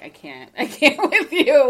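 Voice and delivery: laughing through an exasperated daughter's line; laughing exasperation. Retold or imitated. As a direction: imitate the daughter giving up, laughing. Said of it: "She's just like".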